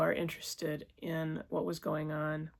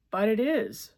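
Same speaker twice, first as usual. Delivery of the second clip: higher, louder tearful insistence; crying insistence; 5 semitones higher, 8 dB louder than usual. A narrator's reading. Distraught woman insisting to her lover, crying. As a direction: insist through sobs. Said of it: "crying harder".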